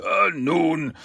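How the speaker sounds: verunsichert, mit höherer Stimme; verlegen schluckend. A narrator's reading. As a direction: verlegen nach Worten suchen. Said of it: "der Shredder schluckte". (kleinlautes, hohes Herumdrucksen)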